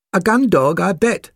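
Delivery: high, loud puppy voice; eager spaniel puppy. A narrator's reading.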